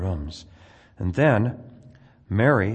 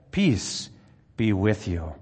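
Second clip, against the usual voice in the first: joyful greeting; slower than usual. Acted. Jesus greets the disciples again.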